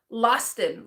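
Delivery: "Loston" said like Austin with an L in front; rhymes with Austin. Shown as a demonstration. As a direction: say "Loston" as one name, rhyming with Austin. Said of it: "like Austin, the name, with an L".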